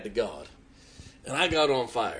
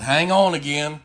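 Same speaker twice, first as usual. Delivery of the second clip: louder, mock excited preacher; excited retold reply; 3 semitones higher, 8 dB louder than usual. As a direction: call out with rising excitement.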